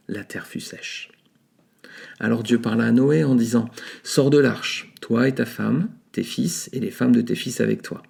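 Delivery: measured scripture reading; Bible reading. Acted. Preacher reading Genesis to podcast listeners, solemn reading. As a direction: read the Genesis passage aloud with steady solemn weight.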